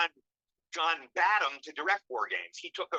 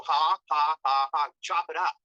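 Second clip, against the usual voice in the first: short chopped ha ha, louder; choppy laugh demo; 7 dB louder, slower than usual. Shown as a demonstration. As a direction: chop the laugh into hard beats. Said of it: "make it a choppier laugh".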